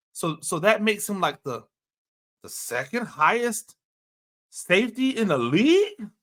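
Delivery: mimicking a GM feigning shock, question rising; mock surprise. Scene: imitating the GM counting up the contract, mock surprise. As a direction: act surprised at the figure. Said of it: "that level of voice inflection".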